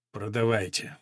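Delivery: low, hollow, muted one word; muffled reply. A narrator's reading. Old jockey to the owner, a muffled dull answer. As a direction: answer dully, holding back disappointment. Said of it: "глухо отозвался жокей".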